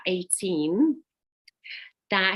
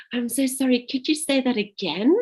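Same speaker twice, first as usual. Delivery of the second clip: flustered apology; 6 semitones higher, 3 dB louder than usual. Retold or imitated. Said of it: "And then they'd say it again".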